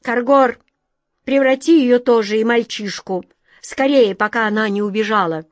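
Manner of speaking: urgent angry command. Acted. King orders urgently.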